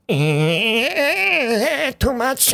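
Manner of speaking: the camera groaning that it can't cope; lightly voiced overwhelmed camera. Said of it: "And the camera's like".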